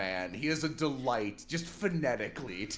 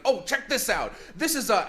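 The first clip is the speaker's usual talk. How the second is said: higher, louder excited Chicago guy; Chicago accent; 9 semitones higher, 6 dB louder than usual. Retold or imitated. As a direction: call it out like a thrilled plant hunter. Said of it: "And they'll be like".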